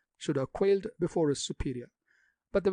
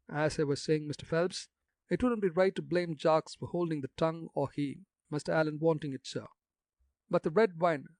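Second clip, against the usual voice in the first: put-on gossipy old gravedigger in broad country dialect. Jacques takes leave.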